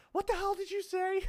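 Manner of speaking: high, loud mock outrage; mock outraged confrontation. Someone pinning streamers to the wall, loud mock outrage. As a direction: demand it in an over-the-top yell.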